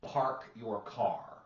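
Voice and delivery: slow, drawn-out South Boston "Park your car" with dropped r sounds; Boston accent. Shown as a demonstration. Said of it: "the South Boston accent".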